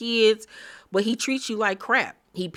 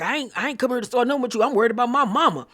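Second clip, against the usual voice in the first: defensive Scrappy; 5 semitones higher, much faster than usual. Retold or imitated. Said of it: "And Scrappy was like".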